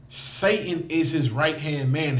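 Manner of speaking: "Satan is his right hand man" said slowly, every word weighted; slowed for emphasis. Shown as a demonstration. Preacher repeating it to the crowd, slow and weighty.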